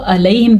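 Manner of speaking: "علیہم" with no ayn, simple a; wrong plain a. Shown as a demonstration. Teacher naming what to avoid, "علیہم" without ayn. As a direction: start "علیہم" lightly, no throat squeeze. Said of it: "علیہم کے بجائے".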